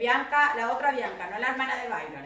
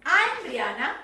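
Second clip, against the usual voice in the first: clear, louder presentation line; model self-presentation; 5 dB louder, slower than usual. Shown as a demonstration. Teacher shows Brian how to present, clear model delivery. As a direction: introduce yourself as an example for a pupil. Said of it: "tenías que presentar así".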